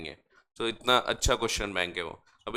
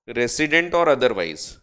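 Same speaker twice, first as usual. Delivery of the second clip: slow dictation; much slower than usual. Shown as a demonstration. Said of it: "teacher dictates key phrase slowly".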